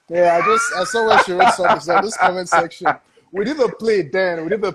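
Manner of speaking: bubbling with excitement; excited. Real, not acted. Excited about a friend commenting.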